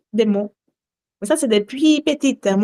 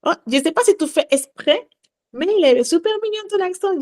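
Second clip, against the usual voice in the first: imitated flirty compliment; 7 semitones higher than usual. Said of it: "Ils me disent".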